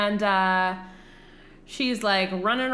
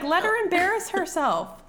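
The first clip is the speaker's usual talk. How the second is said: mock exasperated father; 11 semitones higher, 4 dB louder than usual. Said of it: "And he's like".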